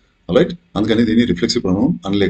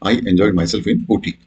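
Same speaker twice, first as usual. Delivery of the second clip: slow example reading; much slower than usual. Shown as a demonstration. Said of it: "So the correct option here is".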